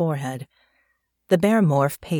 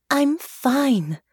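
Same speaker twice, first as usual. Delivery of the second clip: higher, gentle reassurance for a worried father; soothing tone; 8 semitones higher than usual. Acted. Daughter soothing her anxious father on the stairs, gently reassuring. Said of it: "in the most soothing tone she could manage".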